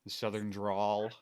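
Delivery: slow, stretched Southern accent; Southern drawl. Shown as a demonstration. Naming the accent friends often mimic, Southern drawl. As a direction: drag the vowels out like a Southerner. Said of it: "hear people mimicking a Southern accent".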